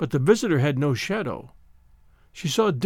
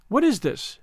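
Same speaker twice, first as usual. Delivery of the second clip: sharp demand; 7 semitones higher than usual. Acted. Miss Ludgate challenges beggar.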